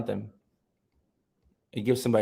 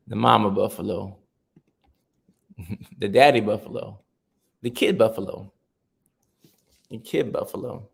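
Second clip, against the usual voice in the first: mock documentary narrator. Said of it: "He does documentaries that they have".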